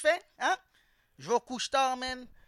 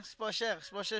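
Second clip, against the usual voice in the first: softer, pleading sales murmur; quiet repeat; 3 semitones lower, 10 dB quieter than usual. Retold or imitated. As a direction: drop the pitch and murmur the price pitch. Hawking a chain. (vendeur qui répète tout bas)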